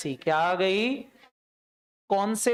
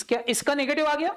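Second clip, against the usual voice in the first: mock surprise; 8 semitones higher than usual. Teacher reacting to a negative balance.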